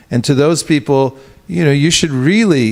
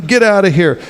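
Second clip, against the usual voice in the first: mock amazement; 6 semitones higher than usual. Crowd reacts to a Krishna claim in higher mock disbelief. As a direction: tease out fake awe. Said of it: "you know, like".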